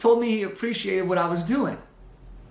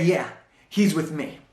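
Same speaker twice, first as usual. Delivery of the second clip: smiling confirmation; 2 semitones lower than usual. Retold or imitated. Employee calmly confirms to the elevator operator, smiling. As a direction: settle it with a confident smile. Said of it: "the same nod and the big smile".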